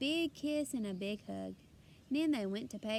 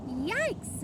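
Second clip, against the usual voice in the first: high, louder startled cry; startled yikes; 8 semitones higher, 4 dB louder than usual. A narrator's reading. Father sees the chocolate bars, startled. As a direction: gasp it out in alarm.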